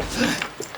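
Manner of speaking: imitated anxious intake of breath; nervous gasp. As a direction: gasp as if caught out. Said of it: "of course I'm freaking out".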